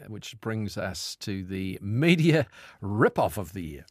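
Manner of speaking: deliberate, stretched announcement; mock awards announcer. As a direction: draw out the award title for effect. Host announces next mock award.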